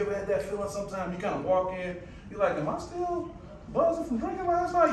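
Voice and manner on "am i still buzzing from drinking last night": dazed self. Retold or imitated. Imagined thought walking in dazed.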